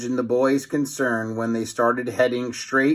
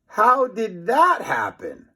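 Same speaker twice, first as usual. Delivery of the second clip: puzzled; 8 semitones higher, slower than usual. A narrator's reading. Puzzled boy.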